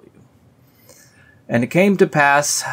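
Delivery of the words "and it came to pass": high, loud "And it came to pass"; mock exasperation. Shown as a demonstration. Fed up with the repeated phrase, loud mock outburst. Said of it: "stop saying".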